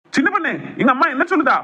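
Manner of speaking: acted angry confrontation. Son confronts wife over his mother's tears, acted anger.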